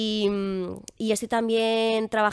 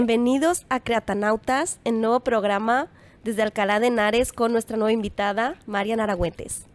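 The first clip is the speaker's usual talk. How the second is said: neutral Mexican accent. Shown as a demonstration. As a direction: show how a Mexican host would open the show. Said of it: "sería más bien como".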